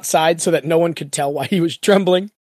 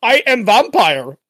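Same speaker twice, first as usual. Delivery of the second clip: loud, hammed-up Russian vampire, pitched up; mock Russian accent; 4 semitones higher, 5 dB louder, much slower than usual. Co-host teasing the failed Spanish voice, mock Russian accent. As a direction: ham up a slow Russian accent. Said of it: "Is he Russian now?".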